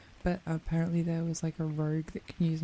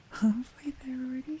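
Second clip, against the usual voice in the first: whispering; 7 semitones higher than usual. Pretend. Teasing whispered aside.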